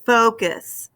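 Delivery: focus with a strong FO; FO-cus, demonstrating the accented syllable; stress on first syllable. Shown as a demonstration. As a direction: lean on the FO of focus, then let go. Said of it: "chin kind of dropped".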